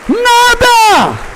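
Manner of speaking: high, full-force preaching shout; impassioned ranting. Real, not acted. Preacher delivering God's message to the congregation, impassioned shouting. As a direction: thunder it out, drawing out key words. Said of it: "Depois de uns bravejamentos desse".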